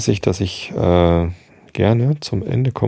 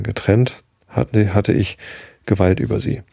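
even, measured audiobook reading; calm storyteller reading from a novel; story narration. A narrator's reading. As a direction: read the tale aloud in a steady, composed voice. Reads novel aloud to listeners.

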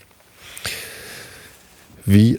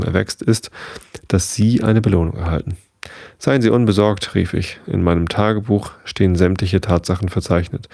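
even, measured audiobook reading; story narration. A narrator's reading. Narrator reading a newspaper report to bedtime listeners, measured storytelling. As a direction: read it out like a newspaper report in a novel. Reads the novel aloud.

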